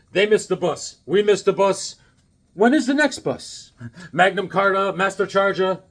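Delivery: lightly imitated priest intoning nonsense; mock priest reading. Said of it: "got the priest you requested".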